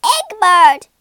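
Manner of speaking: loud, high furious yell of his name; angry shout. A narrator's reading. Wife storms in shouting at Egbert, loud and furious. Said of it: "she shouted".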